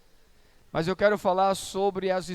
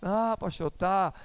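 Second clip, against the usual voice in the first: ordinary talk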